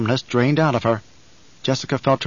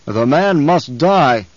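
very slow, heavy and louder; slow, louder menace to his captain; rumbling Baron; 5 dB louder, much slower than usual. Acted. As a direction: lean on each word like a sentence of death. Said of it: "the Baron rumbled".

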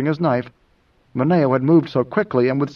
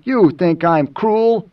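slow, higher-pitched challenge; demanding; 4 semitones higher, 3 dB louder, much slower than usual. Acted. Moneo challenges Idaho's view of him, demanding. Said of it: "Mineo demanded".

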